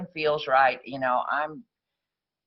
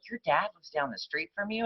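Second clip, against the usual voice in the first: imitated disbelief, higher and rising; mock-puzzled, pitched-up question; incredulous question; 5 semitones higher, 4 dB quieter than usual. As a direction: play a friend who can't believe it. Friends astonished at where dad lives.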